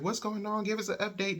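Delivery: high-pitched anxious questions; imitated worried urgency. Everybody calling about the coma, urgent and high.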